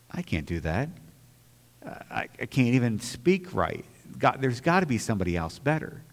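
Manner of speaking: quiet pleading excuse. Retold or imitated. Retold own excuse to God.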